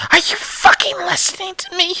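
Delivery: angry shout. Acted. Frantic caller yells at dispatcher.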